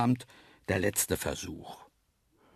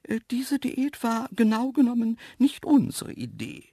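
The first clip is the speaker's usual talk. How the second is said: high, hedging antelope voice; Graziella, sheepish; 13 semitones higher, 4 dB louder than usual. A narrator's reading. Antelope excusing the diet to the man, slightly ashamed. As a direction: admit it awkwardly, pitched up high. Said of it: "druckste ein wenig verschämt".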